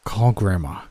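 words pushed through clenched teeth. Acted. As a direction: jaw locked, speaking through teeth. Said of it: "he said through clenched teeth".

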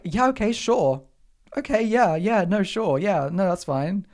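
high, over-agreeable going-along; flustered agreement. Retold or imitated. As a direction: agree too readily, hiding the shock. Acted meek agreement after inner rant.

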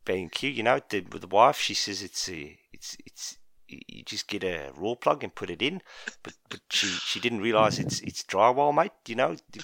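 a hint of South African, chatty bloke; light South African twang telling a DIY tale; South African accent. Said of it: "you've got a bit South African there".

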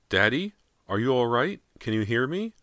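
high, thin anxious calling. A narrator's reading. Girl calling to silent father upstairs, thin voice. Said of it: "Callie's thin voice echoed".

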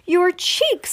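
high-pitched cry of alarm; alarmed mother, high but controlled; storybook scream. A narrator's reading. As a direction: squeal it in panic. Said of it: "screams Missus Beauregard".

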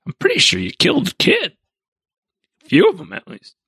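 high, fast muttered droid jab; snarky droid. Retold or imitated. R2-D2 rolling behind Anakin, high fast snark. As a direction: quip it like a nervous little robot.

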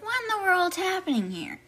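high-pitched, baffled voice; mock bewilderment. Anna asking what in the world is happening, bewildered.

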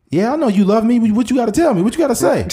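hammed-up lovestruck guest; mock eager guest. Guest pushing partner for the secret, high mock voice. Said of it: "acted talk show confrontation".

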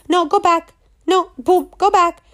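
high playful go back; mock cat swat. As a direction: bat it away like a cat. Cat swatting voiced.

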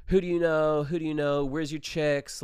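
lightly acted frat-guy grilling; frat guy challenge. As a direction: play a pushy frat guy at the gate. Acting frat guys grilling them.

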